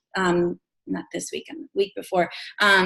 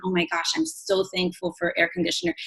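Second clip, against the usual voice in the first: mock gushing, much higher; gushing gratitude; 9 semitones higher, 4 dB quieter than usual. Gushing to listeners about the lost power, much higher mock thanks. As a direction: squeal it like a sudden revelation of thanks. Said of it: "really aware all of a sudden".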